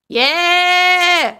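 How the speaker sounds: loud high victory yell; real triumphant shout; excited shout. Real, not acted. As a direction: cheer it out. Setup finally works.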